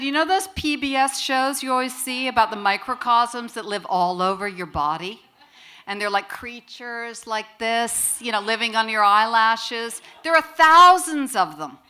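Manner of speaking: building up, ending high and loud; excited sister. Retold or imitated. Sister replying on late phone call.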